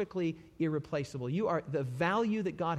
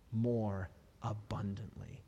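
hushed, slow, breathy whisper; 5 semitones lower, 5 dB quieter, slower than usual. Acted. Preacher whispers Jesus' promise to the congregation. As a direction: let it fall to a whisper.

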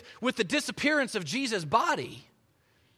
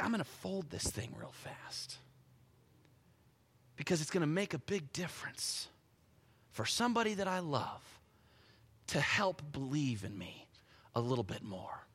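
soft, low murmur as Jesus; tender, hushed; 4 semitones lower, 7 dB quieter than usual. Acted. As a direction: quietly confide a loving intention, slowing toward the end. Preacher voices Jesus' tender private thought.

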